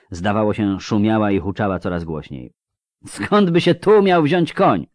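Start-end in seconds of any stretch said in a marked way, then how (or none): 3.1-4.9 slow, high, loud disbelieving call; shouted question. A narrator's reading. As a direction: demand it over the roaring river. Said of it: "Kahir też musiał krzyczeć". (głośne, przeciągłe pytanie z niedowierzaniem)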